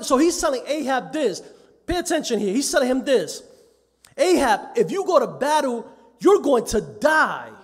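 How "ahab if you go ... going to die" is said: prophetic warning. Acted. Prophet warning the king of death.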